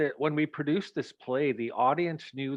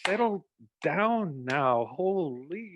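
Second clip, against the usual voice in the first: a hint of a firm auntie, settle down now said slowly; calm her down slowly, half-amused; slow soothing scold; 3 semitones higher, slower than usual. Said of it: "Seagoose just grabbing her".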